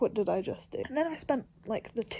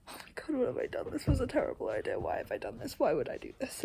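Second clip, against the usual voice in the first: panicking; 3 semitones higher, faster than usual. Retold or imitated. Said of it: "looking at it and going".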